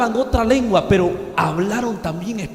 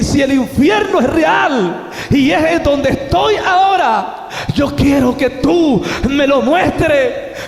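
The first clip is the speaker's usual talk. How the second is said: slow, loud pleading cry, pitched up; desperate plea to God; 5 semitones higher, 3 dB louder, slower than usual. Retold or imitated. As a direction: beg God slowly and loudly, voice climbing. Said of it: "yo ahí clamé a Dios". (súplica desesperada, lenta y fuerte)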